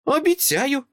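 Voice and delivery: put-on high child voice, solemn promise. Girl promises Dresden solemnly. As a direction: promise it like a sacred oath. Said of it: "урочисто відповіла дитина".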